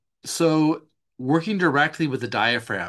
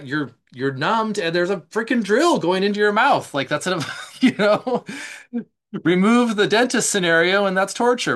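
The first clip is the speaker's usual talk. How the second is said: louder and higher, getting worked up; emphatic; 8 semitones higher, 6 dB louder than usual. Real, not acted. Therapist stressing the dentist drill is torture, heated. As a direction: drive home how awful it is.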